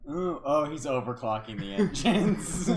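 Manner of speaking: excited. Real, not acted. Player realizes danger.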